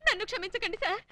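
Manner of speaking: hammed-up crying plea; weepy, repentant wail at moderate volume; tearful pleading. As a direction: beg the officer through mock sobs. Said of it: "మీరు ఏడవద్దు".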